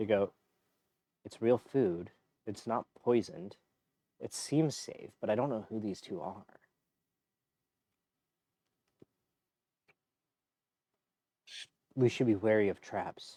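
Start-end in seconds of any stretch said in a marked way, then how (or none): 1.2-13.4 two voices whispering softly together. Voicing two figures conferring over the food, whispering to each other. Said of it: "the two whisper between the, each other".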